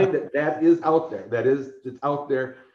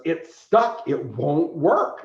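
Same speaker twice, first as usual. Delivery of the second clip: mimicking a frustrated animator, pitched up; retold exasperation; 4 semitones higher, 4 dB louder, much slower than usual. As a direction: act out a worker at wit's end.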